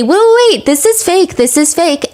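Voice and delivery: high-pitched mock objection, easing down; imagined internet sleuth. Internet sleuth objecting to leaked audio, mock high-pitched alarm. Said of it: "Some internet sleuth is gonna say".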